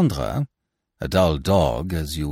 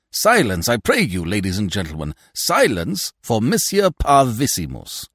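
high, raised-voice call for silence; mock announcement; 5 semitones higher, 5 dB louder than usual. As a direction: proclaim it to the whole table. Mock announcement calling the table to silence.

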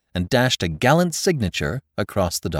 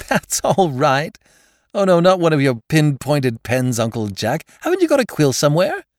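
put-on lively young man voice; 8 semitones higher, 4 dB louder than usual. Laughing nephew asks for quill.

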